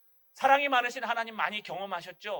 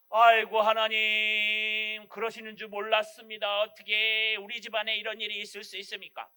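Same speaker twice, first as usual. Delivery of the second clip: mock wailing lament; 5 dB louder than usual. Believer wailing complaint to God.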